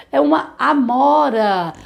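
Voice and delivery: slow, spelled-out teacher voice; slow and clear. Shown as a demonstration. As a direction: say it slowly for the children. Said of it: "vamos falar devagar a palavra". (fala devagar e clara)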